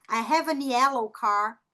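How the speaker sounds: slow demo, "have a" run together as "hava"; linked words. Shown as a demonstration. Teacher modelling connected speech for students, linked and slow. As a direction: join "have a" into one unit before "yellow car". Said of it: "se conectar com a vogal que existe aqui".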